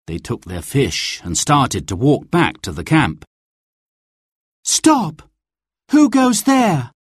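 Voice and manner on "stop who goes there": high, commanding challenge; challenging call. A narrator's reading. Guard challenges strangers on the forest path, calling out sharply. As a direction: call it out high, stretching the question.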